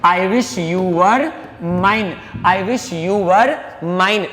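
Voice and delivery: slow, word-by-word model sentence; teacher spelling it out slowly for students; slow dictation. Shown as a demonstration. Teacher dictating to the class, slow and deliberate. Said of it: "काश आप हमारे होते".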